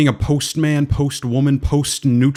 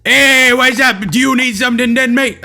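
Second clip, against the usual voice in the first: high, loud mock-British greeting; hammed-up British hello; bad British accent; 9 semitones higher, 4 dB louder than usual. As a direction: overdo a British accent, pitched way up. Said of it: "I don't know how to do British accent".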